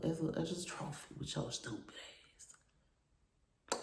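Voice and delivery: slow unvoiced hiss of contempt; whispered insult. Insulting the ex under her breath, slow whisper.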